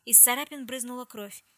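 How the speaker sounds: ordinary delivery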